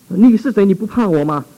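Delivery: high, menacing challenge; fierce demon voice. Retold or imitated. Spirit in the man challenges the pastor, menacing. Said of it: "很凶狠，很凶恶".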